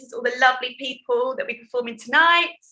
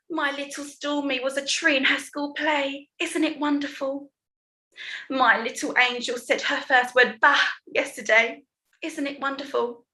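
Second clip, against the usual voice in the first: higher-pitched, mock-gushing mum voice; gushing mothers; 5 semitones higher than usual. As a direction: parody mums cooing over their kids. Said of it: "every word that comes out of their mouths".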